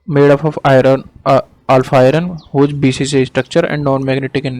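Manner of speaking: slow, measured dictation; word by word, with pauses for writing. Real, not acted. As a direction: dictate slowly for note-taking. Teacher dictating a definition for notes.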